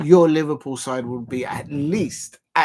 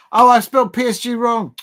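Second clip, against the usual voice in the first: sudden high dismay; surprised; 8 semitones higher, 10 dB louder than usual. Real, not acted. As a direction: blurt out the discovery. Notices his own spelling mistake.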